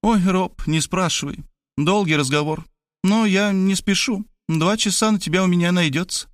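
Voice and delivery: put-on high-pitched, breezily familiar young woman; young woman visitor. A narrator's reading. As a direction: play a chatty girl, pitched well up. (высокий девичий голос, по-свойски)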